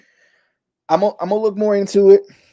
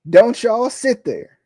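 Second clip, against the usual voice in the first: slow, higher, louder, real frustration building; 4 semitones higher, 3 dB louder, much slower than usual. Real, not acted. To the fans, a frustrated slow warning. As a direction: lean into each word, fed up. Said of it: "'cause I'm getting too emotional".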